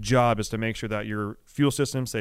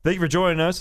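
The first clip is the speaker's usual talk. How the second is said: podcast host intro; slower than usual. Acted. Show intro announcement.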